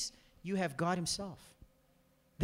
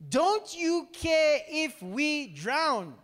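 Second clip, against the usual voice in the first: panicked plea; 6 semitones higher, 3 dB louder, much slower than usual. Acted. Panicked disciples wake Jesus.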